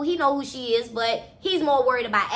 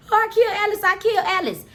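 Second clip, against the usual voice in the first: high-pitched, wailing realization; acted panic; 8 semitones higher, faster than usual. Killer fleeing out the door, panicked. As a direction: panic over what you have just done.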